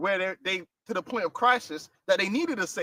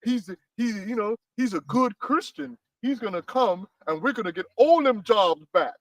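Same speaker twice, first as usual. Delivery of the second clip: mock American accent. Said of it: "I gotta do my American accent now".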